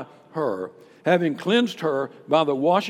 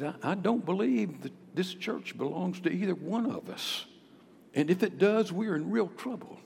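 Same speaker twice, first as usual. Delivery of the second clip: softer, gentle reply; polite and gracious; 6 dB quieter than usual. Retold or imitated. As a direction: answer kindly to calm her. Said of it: "as politely and as graciously as I could".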